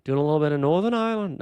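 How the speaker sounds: quick, wobbly mock Irish accent; badly faked Irish accent, rattled off; attempted Irish accent. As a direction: try an Irish accent and let it slip. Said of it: "The accent fell apart there".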